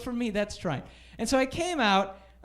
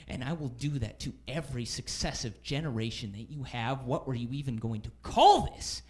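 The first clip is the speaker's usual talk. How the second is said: furious boss; 7 semitones lower, 5 dB quieter than usual. Acted. Boss tastes the candy, furious.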